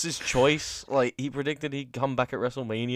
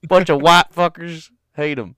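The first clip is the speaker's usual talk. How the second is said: loud jokey rant; hammed-up outrage; mock angry shout; 5 semitones higher, 11 dB louder than usual. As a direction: shout it in fake fury.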